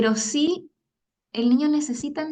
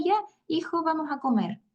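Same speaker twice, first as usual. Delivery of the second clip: higher, brightly moving on; cheery parent; 5 semitones higher than usual. Acted. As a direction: mom breezily changing the subject, pitched up. Mamá finge que todo está bien. (mamá alegre cambiando de tema, más aguda)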